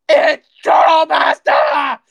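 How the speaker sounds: a slow, crying shout; tearful shout. Real, not acted. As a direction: yell it out, voice breaking with tears. Accused streamer breaks into shout.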